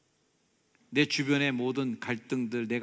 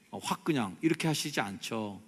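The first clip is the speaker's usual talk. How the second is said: ordinary delivery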